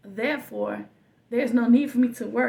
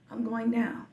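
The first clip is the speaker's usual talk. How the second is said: whispered. Retold or imitated. Retelling drowning as a child.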